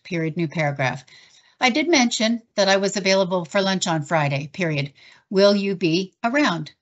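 even, measured dictation voice; dictating. Shown as a demonstration. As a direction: dictate it clearly to the software. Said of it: "create a dictation anywhere".

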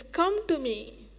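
slow, tender call stretched out; loving call. Acted. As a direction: invite them in gently like a father. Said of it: "what a father would say, lovingly".

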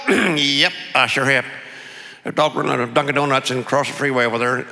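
Texan mumble, mouth hardly opening; closed-mouth Texas accent. Acted. Second passer-by reporting a dog, closed-mouth Texas accent. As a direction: imitate a tight-lipped Texas local. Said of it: "They talk the same".

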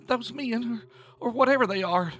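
high, loud, frantic sobbing plea; sobbing panic. A narrator's reading. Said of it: "Tish sobbed".

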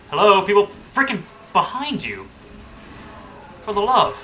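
high exasperated yell; cover me shout. Real, not acted. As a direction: yell a warning at careless teammates. Warning teammates, enemies behind.

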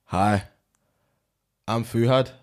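put-on tentative German accent; lightly attempted German accent. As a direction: introduce yourself as a German.

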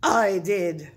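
loud barked confession. A narrator's reading. Big Bark owns up to the crowd below, barking. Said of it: "barked a voice from above".

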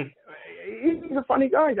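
high, slow, drawn-out West Indian lilt. Shown as a demonstration. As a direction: stretch it out, sing-song West Indian. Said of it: "that's how West Indians talk".

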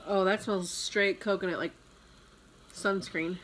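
talking into a glass rim; speaking while sniffing drink; glass held at lips. Real, not acted. Seen 0: Woman talks holding glass at chin and lips, sniffing drink.

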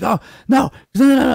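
high, loud panicked pleading; a frantic "no, no" from a scared guy; retold panicked no. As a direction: imitate someone panicking, going up and up. Retold panicking person in scene.

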